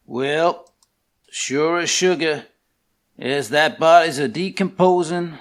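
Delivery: southern drawl. Acted. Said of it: "my best southern drawl".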